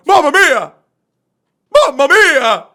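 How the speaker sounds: dramatic loud Italian exclamation; emotional exclamation. Shown as a demonstration. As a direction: cry out Mamma Mia! with real alarm. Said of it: "it's supposed to exclaim emotions".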